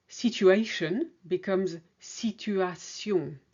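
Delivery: Situation slowly, first English then French with an S. Shown as a demonstration. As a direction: contrast the two Situation endings slowly. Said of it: "in English you say shun".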